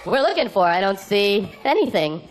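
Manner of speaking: high-pitched, clueless offering voice; mock helpless searching. Driver showing glove compartment junk to the trucker, high helpless voice.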